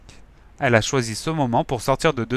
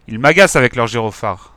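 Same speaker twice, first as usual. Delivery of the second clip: loud irritated grumble; grumbling; 7 dB louder than usual. Acted. Nervous gang leader complaining about the lights, irritated. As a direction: growl your annoyance. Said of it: "a grogné le bigleux".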